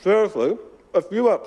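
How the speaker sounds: talking through a mouthful of muffin; words round a hot bite; mouth full. Real, not acted. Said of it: "sorry for talking with my mouth full".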